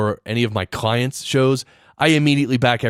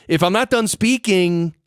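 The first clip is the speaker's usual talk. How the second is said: "If I'm not done speaking" lifted at the end, as if more is coming; unfinished rising tune; 5 semitones higher than usual. Shown as a demonstration. Showing listeners a sentence that isn't finished, rising tune. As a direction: let "speaking" hang up, unfinished. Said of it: "you see the tone".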